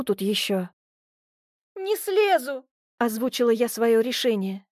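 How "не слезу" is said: high, defiant cry; girl refusing to climb down; stubborn refusal. A narrator's reading. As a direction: refuse flatly, digging in.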